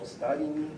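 "Ostavini" with the accent later in the word; stress off first syllable. Shown as a demonstration. Lecturer showing a rejected accent, "Ostavini" stressed late in the word. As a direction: move the stress of "Ostavini" off its opening O. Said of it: "But it's not".

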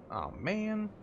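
high, whiny aw man; disappointed sigh. Real, not acted. Player stuck without a key.

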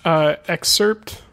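excerpt said slowly, stretched; odd pronunciation. Shown as a demonstration. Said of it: "another word that's like that".

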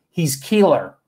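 lightly imitated Brazilian accent of a metal singer; a touch of the singer's accent on "killer". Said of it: "a little bit of his accent".

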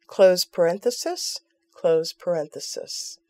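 spelling out code piece by piece; dictating. Shown as a demonstration. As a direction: read out each symbol deliberately. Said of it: "The final equation is the graph".

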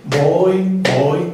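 "Voy, voy" marcado a paso de caminar; un "Voy" alargado por cada paso; pulso de caminata. Shown as a demonstration. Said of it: "Estoy caminando, yo puedo decir". (al ritmo de los pasos)

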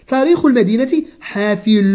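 slow, careful reading of a textbook passage; reading aloud. Acted. Teacher reading the lesson text slowly to the child. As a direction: read each word out slowly for the pupil. Reads the exercise sentence.

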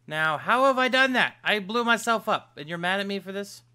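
high, loud indignant protest; outraged shout. Real, not acted. Gamer yelling at a mob that blew him up, outraged. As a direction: yell in disbelief at the unfair blame.

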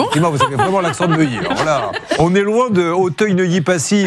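laughing. Real, not acted. Host teasing the caller's accent.

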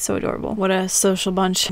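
soft, unvoiced aww; hushed delight; whispered coo. Real, not acted. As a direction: coo over the kittens. Cooing at baby kits.

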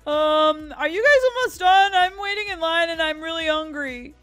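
high, loud customer complaint; impatient complaint. Acted. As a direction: complain loudly from back in the line. Hungry customer complains in line.

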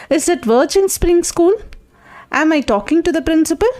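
high, drawn-out telephone calling; calling down a phone line. Acted. Junior on a trunk call to the school, calling out slowly. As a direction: make yourself heard on a poor long-distance line, slow and high-pitched.

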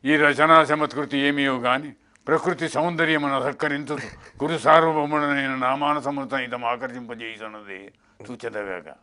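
lightly voiced veteran actor Mukkamala; Mukkamala impression. Shown as a demonstration. Mimic repeats the line as Mukkamala. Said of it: "ఇదే ముక్కామని".

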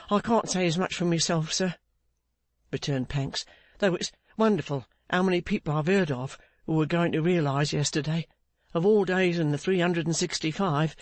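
lightly characterised, rueful reply; rueful Pancks. Acted. Pancks answering Clennam about selling too late, mildly rueful.

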